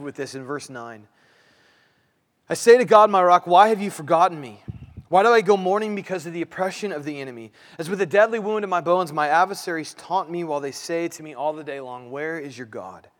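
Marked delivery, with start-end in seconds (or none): 2.5-13.1 aggressive prayer. Acted. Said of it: "that's an aggressive prayer".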